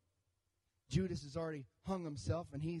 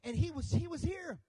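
excited disciples; 5 semitones higher than usual. Retold or imitated. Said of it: "they begin to say".

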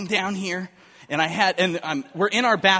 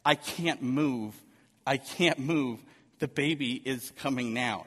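clenched; 4 semitones lower, 4 dB quieter, slower than usual. Retold or imitated. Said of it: "the most clenched I've ever seen a human being".

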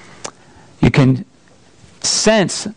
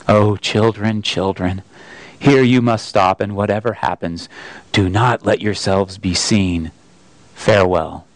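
sorrowful farewell; 5 semitones lower than usual. Acted. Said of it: "Aslan stopped and said".

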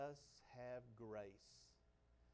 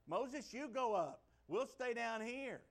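higher, louder, slow plea, playing the scared crowd; fearful people; 10 semitones higher, 9 dB louder, slower than usual. The frightened people begging Moses to go up alone, slow loud plea. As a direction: hand it off to Moses, slow and pleading. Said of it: "That's what the people said".

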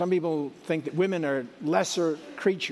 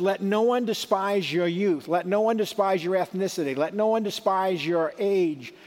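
preaching Paul; 3 semitones higher than usual. Acted. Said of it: "Paul says".

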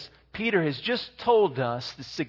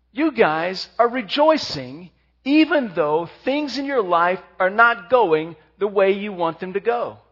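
quoting Peter; 6 dB louder than usual. Retold or imitated. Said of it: "And Peter says".

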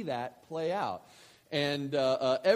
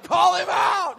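much higher, louder eager shout; 15 dB louder, slower than usual. Retold or imitated. Dad urging his daughter to call the boy out, shouting. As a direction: egg her on at the top of your voice. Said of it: "but I couldn't say it".

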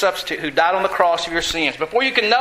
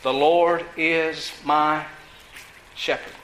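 "The Lord is my shepherd" drawn out slowly, trailing soft; slow recitation; 5 semitones lower, 3 dB quieter, slower than usual. Shown as a demonstration. Preacher prompting the church to recite, slow and drawn out. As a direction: lead the church slowly through the line. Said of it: "what's the first line, church?".

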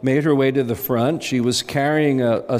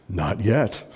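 stammering; 4 semitones lower than usual. A narrator's reading. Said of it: "the man stammered".

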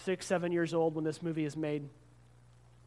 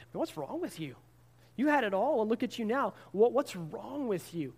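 raised, accusing reproach; mock scolding; 4 semitones higher than usual. Preacher voicing a judgmental onlooker, accusing. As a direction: scold her as a judging onlooker. Imagined judge scolding fallen star.

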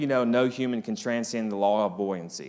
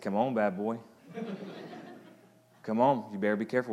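playful laughing; 5 dB quieter than usual. Pretend. Jesus quoted playfully.

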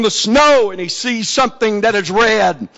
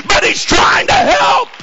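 high, shouted sermon climax; impassioned revival shout; full-force preaching; 8 semitones higher than usual. Real, not acted. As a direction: cry it out to the whole church, stretching the key words.

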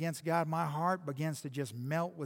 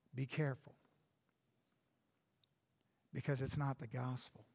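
much softer and lower, gentle and earnest; quiet pastoral tone; 5 semitones lower, 7 dB quieter than usual. Acted. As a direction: speak softly to the hurting listener.

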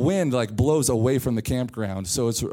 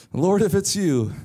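calling out louder; 5 semitones higher, 4 dB louder than usual. Retold or imitated. Peter calling again.

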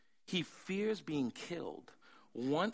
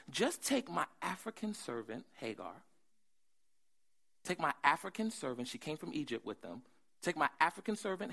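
Sarah's voice. Retold or imitated. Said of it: "I think Sarah talked like that".

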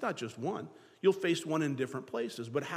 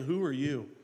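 taunting giant. Retold or imitated. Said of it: "He'll stand out there saying".

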